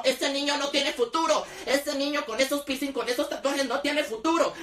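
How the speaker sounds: slow, sneering gossip voice; aunts' scornful drawl; mocking aunts. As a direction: mimic the aunts looking down on him, slowly. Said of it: "Es como".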